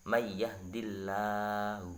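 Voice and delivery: may yahdillahu slow with a light lam; thin Allah. Shown as a demonstration. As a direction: recite it with tarqiq. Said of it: "itu bacanya".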